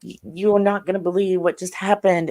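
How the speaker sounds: high, breathless rush of news; excited disbelief. Retold or imitated. Wife telling her just-woken husband, excited and high. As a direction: burst out at him, amazed.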